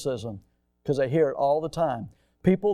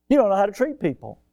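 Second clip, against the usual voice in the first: raised, faster, punching the line; louder firmer repeat; 5 semitones higher, 5 dB louder, faster than usual. Real, not acted. Pastor repeating his rebuke to the rude man, louder. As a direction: drive the point home, louder. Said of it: "repeated with force".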